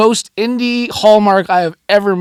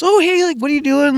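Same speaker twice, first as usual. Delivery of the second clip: chatty shop lady; 5 semitones higher than usual. Retold or imitated. Shop lady greeting a customer.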